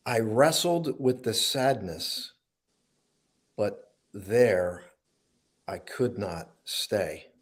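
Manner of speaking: slow, measured poetry reading with long pauses; slow spoken-word recital; poem recital. Acted. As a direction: read it like a heartfelt spoken-word poem, swelling on born again. Reads his own poem aloud.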